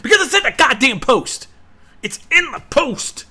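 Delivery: loud, frustrated yelling at viewers; fed-up outburst at the community; exasperated shout. Real, not acted. Ranting at the community.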